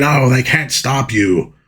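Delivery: mild mock scream, pitched high; high, hammed-up villain wail. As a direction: imitate a villain crying out, not full volume. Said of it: "he's screaming".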